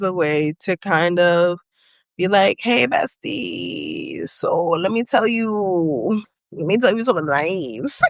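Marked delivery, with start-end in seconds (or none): 2.6-8.0 drawn-out, playful mock confession; hammed-up coy approach to a friend. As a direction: stretch the words out, teasing a bestie.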